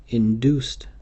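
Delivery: "induced" set apart by pauses and punched; stress on induced. Real, not acted. Lecturer flagging the type of abortion, stress on "induced". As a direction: lean firmly on "induced", isolating it. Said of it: "emphasis on the word induced".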